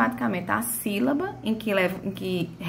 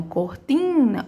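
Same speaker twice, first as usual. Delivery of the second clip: cortina with a nasal, lengthened TIN; stress on TIN; 3 semitones higher, much slower than usual. Shown as a demonstration. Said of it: "Chama tim porque tá junto do N". (cortina com ênfase no TIN)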